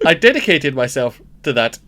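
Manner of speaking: lightly put-on Welsh monologue voice; attempted Welsh accent. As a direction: declaim with a hint of Welsh. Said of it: "I'm no good at the Welsh accent".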